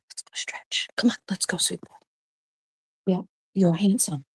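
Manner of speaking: hushed, gentle coaxing; real half-whispered encouragement; soft coaxing. Real, not acted. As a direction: coax a pet along very softly. Coaxing her dog to get moving.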